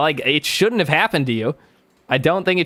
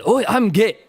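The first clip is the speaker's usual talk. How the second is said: hammed-up fake Japanese accent, higher; caricatured Japanese accent with a laugh close behind; mock Japanese accent; 4 semitones higher than usual. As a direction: put on a joke Japanese accent. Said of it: "The Japanese talk like this".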